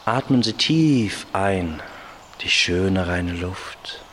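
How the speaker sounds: calm guided relaxation voice; slow, hushed meditation guide; soothing spa whisper. Shown as a demonstration.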